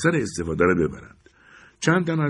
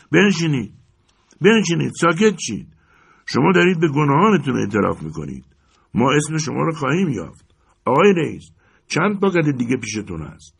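higher, louder angry crowd; shouting; 7 semitones higher, 4 dB louder than usual. Acted. Crowd shouts down the protesting men, loud and scornful. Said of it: "مردم فریاد کشیدند".

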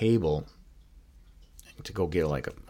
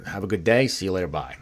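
louder, breezy send-off; mock-casual parting; brisk farewell; 6 dB louder, faster than usual. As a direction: toss off a quick goodbye. Acts his brisk goodbye to the buyers.

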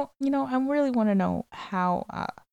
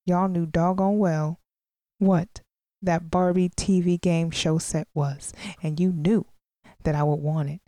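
whiny spoiled brat; 2 semitones lower than usual. Acted. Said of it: "I sound like a spoiled brat".

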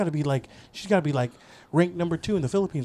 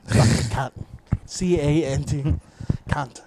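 mock Aussie swearing; jokey Australian vowels; Australian accent; 3 semitones lower than usual. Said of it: "I do Australian".

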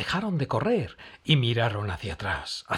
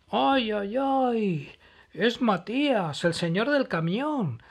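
high, louder panicky cry; alarmed exclaim; 9 semitones higher, 4 dB louder than usual. Acted. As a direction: sound the alarm about the trees. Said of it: "exclamó Noli".

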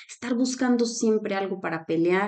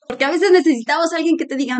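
laughing; 7 semitones higher, 6 dB louder, faster than usual. Real, not acted. Laughing while explaining the series.

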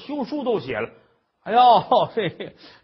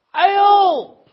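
a much higher, louder flustered cry; embarrassed exclamation; 11 semitones higher, 10 dB louder than usual. Acted. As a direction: caught out and mortified. 母老虎臊得不行. (羞臊地高声惊叫)

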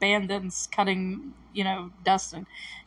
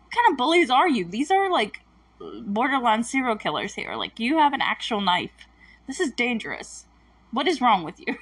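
outraged disbelief; 3 semitones higher than usual. Retold or imitated. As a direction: scold the bullies in disbelief. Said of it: "And I'm like".

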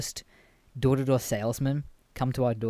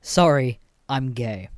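serious; 5 dB louder, slower than usual. Shown as a demonstration. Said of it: "very seriously".

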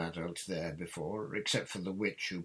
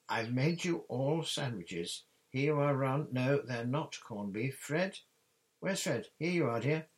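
higher, louder mother handing out food; fussing mother; 7 semitones higher, 5 dB louder than usual. A narrator's reading. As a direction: call round the children like a busy mum. Mother fussing over children with sandwiches.

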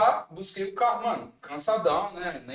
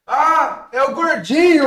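excited shout; 10 semitones higher, 12 dB louder, slower than usual. Retold or imitated. Friend shouts his nickname loudly.

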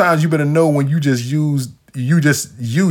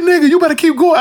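retold yell; 4 dB louder than usual. Yelling at friend to keep driving.

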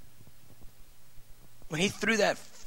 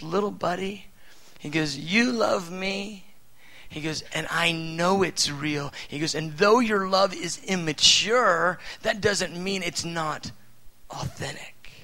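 tender fatherly voice. Acted. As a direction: comfort a small child, slowing down. God speaks tenderly to a child.

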